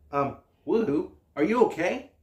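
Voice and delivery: ordinary talk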